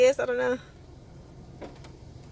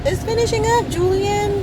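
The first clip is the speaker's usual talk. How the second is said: calling out; 8 semitones higher than usual. Real, not acted. Mom calling to child.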